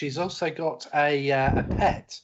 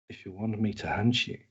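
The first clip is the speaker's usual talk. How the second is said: catchphrase; 5 semitones lower than usual. Acted. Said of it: "And her catchphrase".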